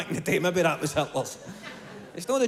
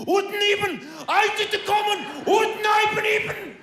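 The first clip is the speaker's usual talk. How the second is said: mock pompous speaker. Mocking the self-assured guy on stage, high shouted gibberish. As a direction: shout nonsense like an overconfident star. Mocking a confident public figure.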